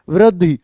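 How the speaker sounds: वृद्धि with a crisp final इ; teacher models वृद्धि clearly, ending on a short इ; correct pronunciation. Shown as a demonstration. Clear वृद्धि demo. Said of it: "वृद्धि बस ऐसे बोलते हैं".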